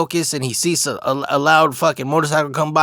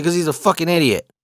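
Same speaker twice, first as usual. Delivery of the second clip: laughing; 3 semitones higher than usual. Real, not acted. Joking answer with laughter.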